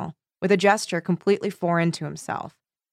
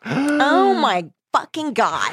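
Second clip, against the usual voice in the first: excited; 7 semitones higher, 4 dB louder, much slower than usual. Pretend. Mock discovery of a clue.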